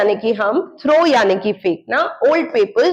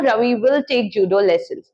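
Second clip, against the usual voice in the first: slow model sentence; 3 semitones lower, much slower than usual. Shown as a demonstration. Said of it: "Ravi के बाद will कर दे रही हूँ".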